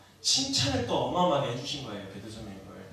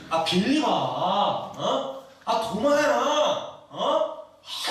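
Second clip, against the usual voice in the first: loud, high exasperated calling out; irritated; 6 semitones higher, 5 dB louder, much slower than usual. Acted. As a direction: call each disciple as if fed up. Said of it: "막 이러면서 막 짜증을 좀 내시거든요".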